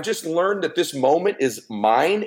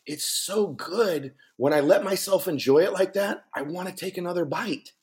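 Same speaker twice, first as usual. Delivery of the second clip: wife savoring; 3 semitones higher, 3 dB quieter than usual. Retold or imitated. Voicing wife savoring food.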